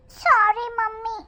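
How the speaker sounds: put-on slow little boy sorry; child apology. Boy apologising to mummy, slow child voice. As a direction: say sorry like a sheepish small boy.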